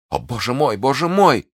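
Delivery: high cry to heaven, building; anguished exclamation. Acted. Prisoner calling on God before her guard, crying out high. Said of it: "воскликнула миледи".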